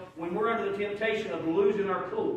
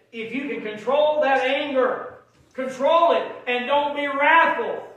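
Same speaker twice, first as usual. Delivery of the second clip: slow, raised preacher cadence; emphatic preaching; 6 semitones higher, 6 dB louder, slower than usual. Real, not acted. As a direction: hammer each phrase out loud and high. Preaching at full force.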